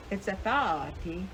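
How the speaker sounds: Athawati, with a soft th and stress on wa; demonstrating the right way to say Athawati. Shown as a demonstration. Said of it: "like that, Athawati".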